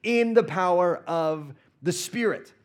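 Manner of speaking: loud, high preaching cry; fervent sermon proclamation; full-force preaching. Acted. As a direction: proclaim it to the congregation.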